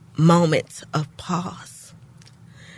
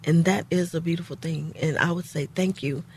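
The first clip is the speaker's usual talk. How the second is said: getting emotional; 5 dB quieter than usual. Real, not acted. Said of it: "you're getting emotional".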